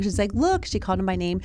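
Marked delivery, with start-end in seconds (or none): 0.3-0.6 high, bright-pitched call to a pet; talking to a dog. Retold or imitated. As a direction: imitate an owner getting the dog's attention. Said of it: "she turned to the dog".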